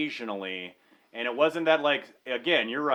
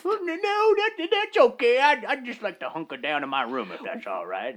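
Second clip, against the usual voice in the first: very high, nervous polite refusal; weary traveler; 8 semitones higher than usual. Acted. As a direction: squeak out a polite no. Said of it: "the Weary Traveler".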